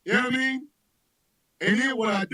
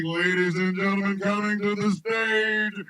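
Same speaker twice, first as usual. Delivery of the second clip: slow announcer; slower than usual. Pretend. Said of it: "You're like".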